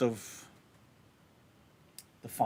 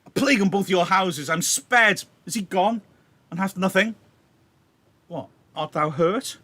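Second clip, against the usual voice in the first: higher, louder, declaiming the wounded man; dying Mercutio; 7 semitones higher, 5 dB louder than usual. Acted. Teacher reading Mercutio's death lines aloud, raised and loud. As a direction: cry out the wound for the class. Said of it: "so he's joking about".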